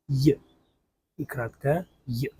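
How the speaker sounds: Й said as a short clipped y glide; name the letter И краткое й; short i sound. Shown as a demonstration. Teacher naming the short i letter.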